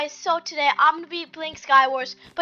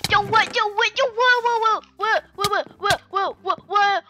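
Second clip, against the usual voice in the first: shocked; 6 semitones higher than usual. Real, not acted. Something wild happens in game.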